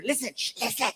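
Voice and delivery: quiet listening at the door; hushed. Retold or imitated. Friends crouched at the door, hushed. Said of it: "we put our ear".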